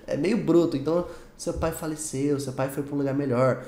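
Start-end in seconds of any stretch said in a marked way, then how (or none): 1.4-3.6 sensitive. Acted. Telling someone about their father's passing, gentle and sensitive. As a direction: softly put condolence. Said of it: "sensível pra você falar".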